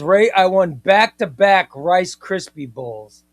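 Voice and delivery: loud, bragging read of the viewer's words; mock champion boast. Reading a viewer's brag to the stream, shouted hype. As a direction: hype up the two-time title like a ring announcer. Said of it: "say it again".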